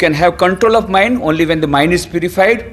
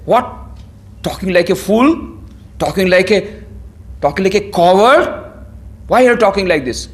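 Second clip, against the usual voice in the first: a hint of an indignant Krishna scolding, a bit higher; mock scolding; 4 semitones higher than usual. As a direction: raise it a little like a teacher rebuking a coward. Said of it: "He doesn't say".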